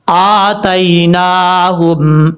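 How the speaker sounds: very slow, drawn-out recitation; slow Quran recitation. Shown as a demonstration. Teacher reciting the joined word after spelling it out. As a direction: intone the word slowly and carefully. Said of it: "ہا میم پیش، ہم".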